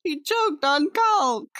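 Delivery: slow, loud punchline landing hard on "caulk"; stress on "caulk". Real, not acted. Delivering a bathroom contractor joke to viewers, "caulk" emphasized. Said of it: "I emphasize caulk because".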